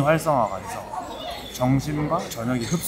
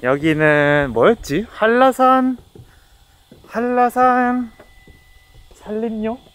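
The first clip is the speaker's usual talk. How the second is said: muffled behind cloth mask; talking masked while walking; through a face mask; 10 semitones higher, 7 dB louder, slower than usual. Real, not acted. Seen 3: Black face mask over mouth throughout; no mask in refs.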